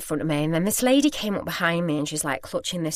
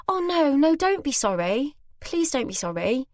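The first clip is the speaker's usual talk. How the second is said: higher, gently insistent retold reassurance; gracious; 8 semitones higher than usual. Bereaved lady excusing the shopper's apology, graciously. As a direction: reassure kindly, easing down on the plea. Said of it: "She was so gracious".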